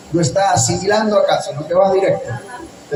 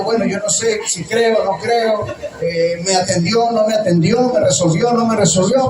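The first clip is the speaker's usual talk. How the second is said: doubtful; 4 semitones higher than usual. Retold or imitated. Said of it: "como diciendo".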